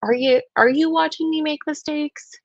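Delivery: quoting the odd phrase with pointed stress; pointed quote. Retold or imitated. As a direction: lift "watching" to question it. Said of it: "very interesting language that she says".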